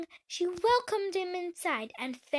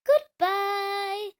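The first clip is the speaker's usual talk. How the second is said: louder, higher call of goodbye; 5 semitones higher, 6 dB louder than usual. Acted. The hen calling after the departing duckling, louder. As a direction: sing out the farewell as the hen. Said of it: "the hen called out".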